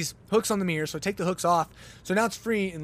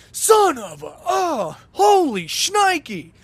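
put-on high, loud, slow Tommy Boy outburst; Tommy Boy impression; 11 semitones higher, 7 dB louder, much slower than usual. Reacting to the snapped wiper, hammed-up Tommy Boy yell. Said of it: "went real Tommy Boy".

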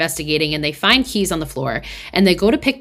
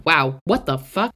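baffled at own stumble; slower than usual. Real, not acted. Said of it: "I think I just had a stroke".

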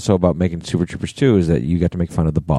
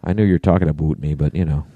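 brisk mock Canadian; quick put-on Canadian accent with rounded "about"; playful Canadian accent; 4 semitones lower than usual. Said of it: "he's got a Canadian accent".

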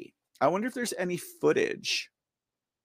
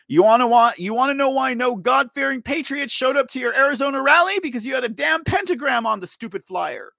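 loud, higher-pitched indignation; indignant rant; 4 semitones higher, 5 dB louder than usual. Real, not acted. Angry streamer scolding rally organizers over the pentagram, indignant rant. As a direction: lay into the organizers, voice raised. Ranting about the flyer.

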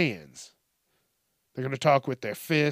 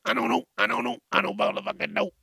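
much higher, mock-frustrated "I don't know"; high exasperated repeats; 8 semitones higher, faster than usual.

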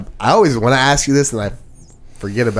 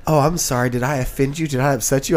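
slightly raised mimicking voice; mock apology; 3 semitones higher than usual. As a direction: imitate someone fishing with a fake sorry. Mimics woman's insincere apology in argument.

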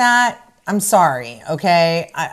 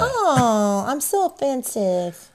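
fake Southern accent; 3 semitones higher, slower than usual. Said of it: "fake Southern accent".

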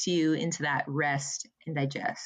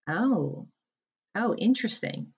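mild surprise; 4 semitones higher than usual. Retold or imitated. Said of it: "you will have this".

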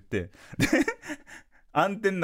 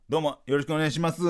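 stiff; 2 semitones higher, faster than usual. Retold or imitated. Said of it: "テトリスのいらんやつみたいな".

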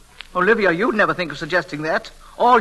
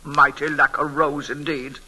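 slow, lower, scoffing repeat; dismissive mutter of contempt; scornful aside; 5 semitones lower than usual. Acted. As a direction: sneer at the silly headline. Scoffing at the news report.

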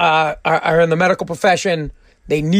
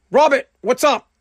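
lightly acted, higher-pitched phone answer; acted phone greeting; 6 semitones higher than usual. China picks up Robert's call, lightly acted greeting. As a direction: pick up and greet an old pal.

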